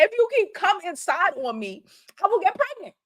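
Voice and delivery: mock girlfriend scolding in broken English; imitating her broken English. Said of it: "in her broken English".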